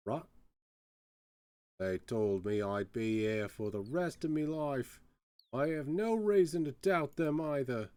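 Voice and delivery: grumbling Cockney prisoner; lightly voiced Cockney jailbird airing a grievance; light Cockney accent, indignant grumble. Prisoner answers the player.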